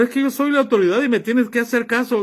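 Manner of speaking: quick mock of a bossy pastor. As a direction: rattle it off like a self-important pastor. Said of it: "Cuando dice tu pastor".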